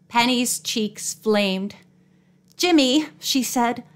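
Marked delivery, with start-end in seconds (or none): 2.6-3.1 mildly scolding. A narrator's reading. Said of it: "mildly scolding".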